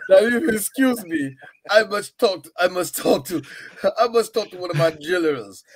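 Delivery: hammed-up Soviet leader. Playing Soviet leader in skit.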